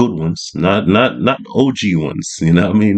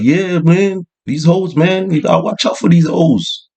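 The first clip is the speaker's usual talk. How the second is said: street OG voice; 6 semitones higher than usual. Retold or imitated.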